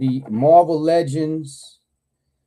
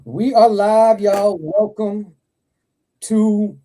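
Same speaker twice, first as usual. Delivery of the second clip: excited announcement; 6 semitones higher, 4 dB louder, slower than usual. Real, not acted. Opening a live stream.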